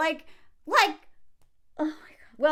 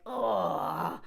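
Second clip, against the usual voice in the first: disgusted groan; 4 semitones lower, 4 dB quieter than usual. Acted. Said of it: "I'm like".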